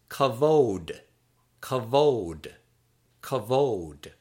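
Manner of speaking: "kavod" as kuh-VOHD, falling at the end; pronunciation demo. Shown as a demonstration. Teacher models the word for glory, careful pronunciation of "kavod" as kuh-VOHD. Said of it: "that is pronounced in Hebrew as".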